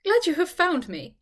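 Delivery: laughing. A narrator's reading. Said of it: "said Charlotte, laughing".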